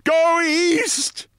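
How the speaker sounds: rally the crowd, building each time; rallying shout. A narrator's reading. Colonel rallying fleeing crowd.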